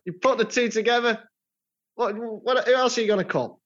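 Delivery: high hammed-up advert boast; mock ad voice. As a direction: sell it like a cheesy ad. Frase de anuncio exagerada.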